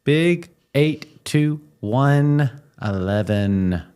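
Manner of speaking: slow odd sing-song count; weird drawn-out announcement. Real, not acted. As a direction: stretch it out oddly slowly. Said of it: "That was a weird way to say it".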